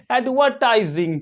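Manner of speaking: एडवर्टाइजिंग with a silent R; British pronunciation. Shown as a demonstration. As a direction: say एडवर्टाइजिंग British-style, no R before the T. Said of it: "British English में क्या पढ़ेंगे".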